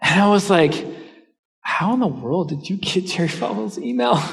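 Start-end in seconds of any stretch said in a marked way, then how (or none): 1.6-4.2 mock disbelief, pitched higher; retold astonishment. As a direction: act out being amazed and baffled. Astonished reaction to friend's email.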